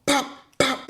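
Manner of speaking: high-pitched "bop, bop" hit noises; quick popped thud sounds; imitated blows. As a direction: mimic two punches by mouth. Retelling the blows he overheard.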